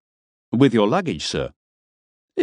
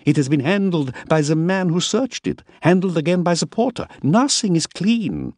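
put-on higher, fussy old man with a French-sounding accent; 10 semitones higher than usual. A narrator's reading. Miller frets over dirt, higher voice with a French-sounding accent. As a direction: lecture on dirty baggage, French-sounding accent. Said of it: "His accent had no American inflections".

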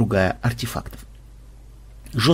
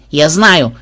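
eager cry; 3 semitones higher, 4 dB louder than usual. Acted. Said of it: "закричала внучка".

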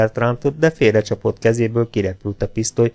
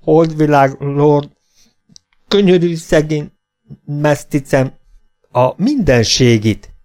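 high, slow pleading in broken words; frightened begging; 5 semitones higher, 5 dB louder, slower than usual. Acted. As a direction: beg him not to leave you. Half-breed begging for mercy. (magas, lassú, rémült könyörgés)

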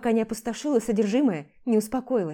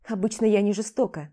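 ordinary delivery, nothing marked

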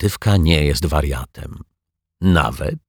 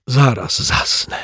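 yawning; 7 semitones higher, slower than usual. A narrator's reading. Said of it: "detektyw Pozytywka zięwnął".

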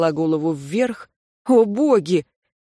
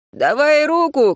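high, loud, slow command; boy climbing up shouts to the frightened student; shouting; 8 semitones higher, 5 dB louder than usual. Acted. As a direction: bark it up the tree. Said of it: "кричал ему".

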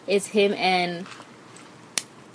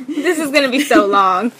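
laughing; 2 semitones higher, 3 dB louder than usual. Real, not acted. Laughing while saying.

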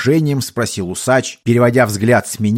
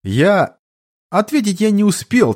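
usual speaking voice

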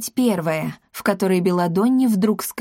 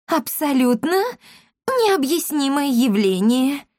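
high, timid lady's babble; flustered wife babbling excuses; 7 semitones higher, slower than usual. A narrator's reading. Esmeralda caught by her husband, babbling high and timid. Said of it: "пролепетала Эсмеральда".

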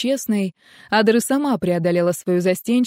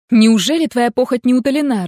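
higher, louder angry rebuke; 4 semitones higher, 6 dB louder than usual. A narrator's reading. Adair scolding Connell in bed, angry and louder. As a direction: scold him, fed up. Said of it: "рассердилась Адр".

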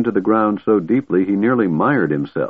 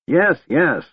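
high-pitched, hurried assent; hasty call; 9 semitones higher than usual. A narrator's reading. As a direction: call back hastily as an old man. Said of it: "the old man called hastily".

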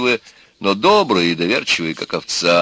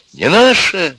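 high, loud retort; indignant shout; 10 semitones higher, 6 dB louder, slower than usual. A narrator's reading. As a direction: throw the words back angrily. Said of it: "закричала Костя". (возмущённый выкрик)

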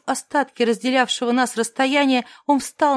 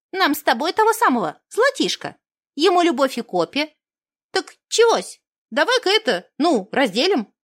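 голос гномки; 3 semitones higher than usual. Acted. Гномка торгуется.

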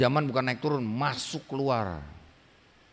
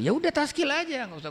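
brisk dismissive reply; 13 semitones higher than usual. Acted. Dai menjawab murid dalam adegan. (jawaban tegas yang meremehkan, nada tinggi dan keras)

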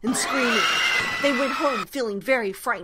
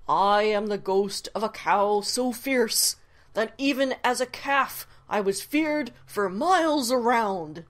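loud, booming ghost threat; fierce ghost cow; 3 dB louder than usual. Acted. Ghost cow menacing Paul with a booming haunting threat. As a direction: spook him like a fierce phantom cow.

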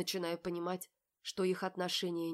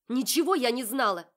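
much louder, higher, desperate; tearful shout; 7 semitones higher, 13 dB louder than usual. A narrator's reading. Polly shouts at Marat through tears. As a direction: cry it out at him.

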